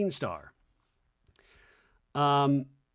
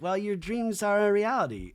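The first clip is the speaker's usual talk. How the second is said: Lexi's voice; 7 semitones higher than usual. Retold or imitated. Lexi voiced higher.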